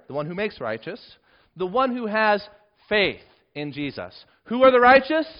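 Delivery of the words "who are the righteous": rhetorical question. Acted.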